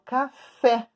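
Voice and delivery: "café" with a beat on "fé"; stress on last syllable. Shown as a demonstration. Teacher giving an example of spoken stress, "café" leaning on "fé". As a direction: say "café" as two beats, landing on "FÉ". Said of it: "como é que eu falo a palavra".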